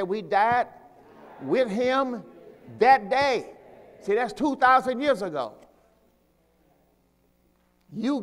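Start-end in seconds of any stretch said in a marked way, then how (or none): 0.0-3.6 building louder and higher on that day; preacher leading the church to echo it; emphatic call to repeat. Shown as a demonstration. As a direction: hammer out with him that day.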